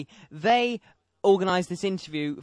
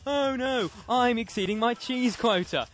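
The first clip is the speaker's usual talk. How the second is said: higher, hammed-up mock dismay; 6 semitones higher than usual. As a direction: overplay it to mock the rule. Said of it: "made a huge show of".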